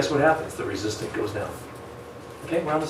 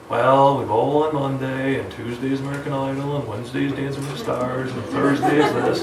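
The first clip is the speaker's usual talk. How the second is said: a hint of an unhurried client; client listing excuses; 3 dB quieter than usual. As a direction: drag through the week's excuses. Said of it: "I'm gonna say".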